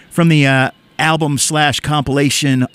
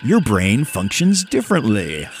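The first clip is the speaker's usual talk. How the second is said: hammed-up public service announcer with big pitch swings; radio voice. Host reads a public service announcement to listeners in radio voice. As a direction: read it like an exaggerated radio PSA. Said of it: "I'm gonna do it in my radio voice".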